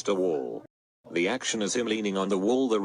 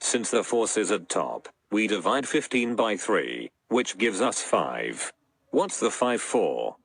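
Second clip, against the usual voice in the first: monotone robot voice throughout. Pretend. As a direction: speak evenly like a robot, no tune. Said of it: "I'll be using this monotone robot voice instead".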